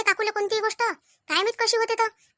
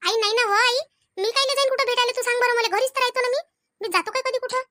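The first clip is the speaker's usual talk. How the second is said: higher-pitched protest of innocence; protesting denial; 4 semitones higher than usual. Acted. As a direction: deny it to your mother, pitch raised. Daughter denies the accusation to mother.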